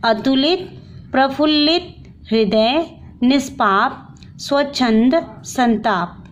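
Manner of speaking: each word said separately and clearly: अतुलित, प्रफुल्लित, हृदय, निष्पाप, स्वच्छंद, संताप; teacher modelling careful pronunciation of each word. Shown as a demonstration. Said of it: "देखिए कैसे पढ़ना है".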